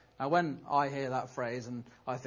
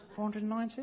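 higher, rising disbelief at ninety; incredulous; 6 semitones higher, 4 dB quieter, faster than usual. Acted. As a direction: echo the number as if it can't be true. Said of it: "He looks incredulous".

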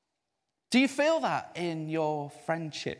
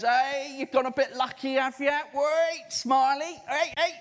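higher, louder teasing call; imitating excited clerk; 8 semitones higher, 4 dB louder than usual. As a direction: tease him loudly with a grin. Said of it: "He goes".

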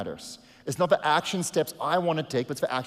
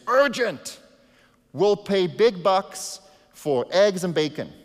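higher, louder, slow urgent announcement; urgent sign; 5 semitones higher, 5 dB louder, slower than usual. Acted. Pastor reading the fable's sign aloud to the church, urgent and loud. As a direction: read the sign like a shouted ad.

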